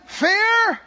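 preacher rebuking fear aloud; commanding fear to leave. Shown as a demonstration. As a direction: order fear out with full authority. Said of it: "And I'm saying".

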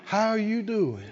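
a touch of pity in "How you doing?"; softly, pityingly ask "How you doing?"; mild pitying "How you doing?"; pitiful voice. Shown as a demonstration. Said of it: "in a pitiful voice".

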